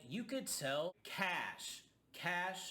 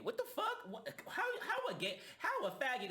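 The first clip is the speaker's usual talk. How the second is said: high, breathless disbelief with a laugh; can't believe what he's hearing; incredulous; 11 semitones higher than usual. Real, not acted. Vlogger reacting in disbelief to Bobby's slur, high and laughing.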